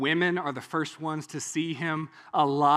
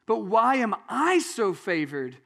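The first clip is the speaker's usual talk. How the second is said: mild exclaiming, pitched higher; loud exclamation; 4 semitones higher, slower than usual. Acted. Elizabeth greeting Mary, mildly exclaiming. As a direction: proclaim the blessing with slow emphasis. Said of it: "and in a loud voice".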